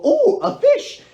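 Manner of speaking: squealed high with a laugh; mock surprise. Someone finding a fish by accident, high laughing squeal. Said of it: "and then you go".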